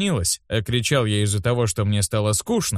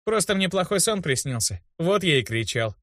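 honest; 7 semitones higher, 3 dB quieter than usual. A narrator's reading. Boy explains his scream to the healer, honest. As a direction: own up simply. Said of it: "честно ответил я".

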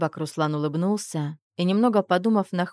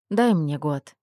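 cooing; slower than usual. Acted. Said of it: "перейдя на воркующий тон".

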